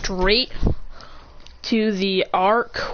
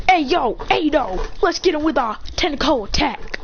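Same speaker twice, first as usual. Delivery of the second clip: calling out; 6 semitones higher than usual. Retold or imitated. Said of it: "Christian says out loud".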